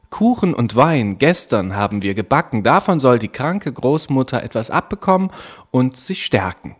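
lightly voiced little girl, eager; a hint of cheerful Little Red Riding Hood; girl's voice. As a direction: chatter it like an innocent child. Rotkäppchen answers the wolf.

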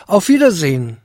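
a touch of trembling dismay in the goodbye; understated shaky farewell; pale, trembling farewell. Acted. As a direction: say goodbye with lips trembling, mildly shaken. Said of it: "mit blassem Gesicht und zitternden Lippen".

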